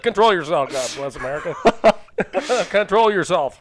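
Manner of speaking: talking through laughter; laughing. Real, not acted. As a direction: laugh while speaking. Laughing at partner's rant.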